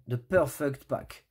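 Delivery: put-on slow, drawn-out English accent, like an ad slogan. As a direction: say it as a proud English-accented product announcer. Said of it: "l'accent anglais qui est très très bon".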